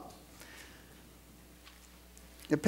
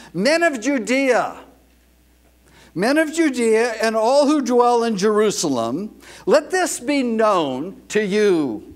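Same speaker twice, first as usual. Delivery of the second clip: raised, projected preacher's call; command voice; 2 semitones higher than usual. Acted. Peter addressing the Temple Mount crowd, raised command voice. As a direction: call out to a crowd without a microphone. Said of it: "he has to use what we call in law enforcement a command voice".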